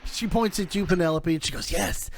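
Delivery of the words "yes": insistent crone, swooping high on key words; old apple-witch lady. Acted. Old woman tempts Penelope with her future, swooping crone voice. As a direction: lure them in with stretched, swooping words. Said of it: "poisonous apple lady old".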